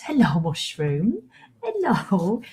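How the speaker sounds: breathy whispered aside to a pet, slowing down; hushed hello to the cat. Real, not acted.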